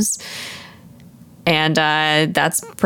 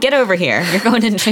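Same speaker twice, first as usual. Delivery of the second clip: mock-stern order, a little raised; stern arresting officer; 4 semitones higher than usual. Mock police hauling someone to jail, lightly stern. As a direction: lightly play the cop making an arrest.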